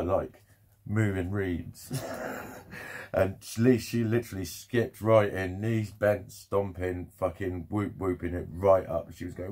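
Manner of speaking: ordinary talk, nothing marked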